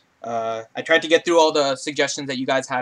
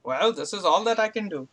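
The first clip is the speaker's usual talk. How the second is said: light higher puppet frog voice; 6 semitones higher than usual. Acted. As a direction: shrug it off in frog voice. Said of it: "my best Kermit the Frog impression".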